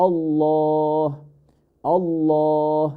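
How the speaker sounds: "আল্লাহ" with heavy L and long rounded "aw"; full-mouth Allah. Shown as a demonstration. Teacher modelling Allah's name, drawn-out rounded "আল্লাহ". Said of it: "always full mouth হবে".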